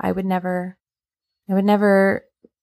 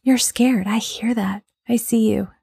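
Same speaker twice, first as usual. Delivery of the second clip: validating tone; 4 semitones higher than usual. Retold or imitated. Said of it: "the one where it's like".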